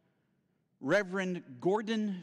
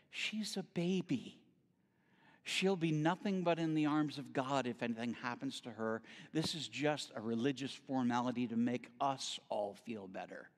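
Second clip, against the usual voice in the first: warm and gentle; 3 semitones lower, 4 dB quieter than usual. Retold or imitated. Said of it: "he very warmly said".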